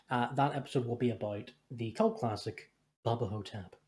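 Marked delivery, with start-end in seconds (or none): 3.0-3.7 spooky announcer voice. Shown as a demonstration. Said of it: "I don't know why I said it like that".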